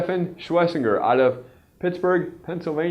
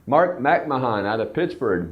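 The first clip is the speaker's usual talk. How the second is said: usual speaking voice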